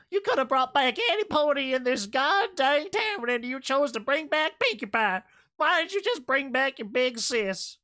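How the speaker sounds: high, loud, exasperated yelling; exasperated rant. Real, not acted. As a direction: yell in disbelief at the wrong pick. Ranting at Apple Bloom.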